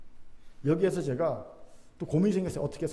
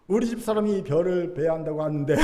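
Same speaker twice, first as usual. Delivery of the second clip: understated hint left hanging; indirect Chungcheong villager. Acted. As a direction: drop the hint casually, trailing the ending. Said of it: "충청도식 간접 화법". (넌지시 흘리는 충청도식 간접 화법)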